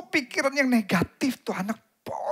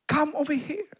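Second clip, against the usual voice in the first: stranger beckoning; 7 semitones higher, slower than usual. Retold or imitated. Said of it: "ada yang berkata".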